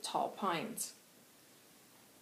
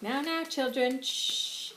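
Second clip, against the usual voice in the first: put-on hushing children; 6 semitones higher, 5 dB louder, slower than usual. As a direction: hush a noisy group of kids. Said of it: "he's like".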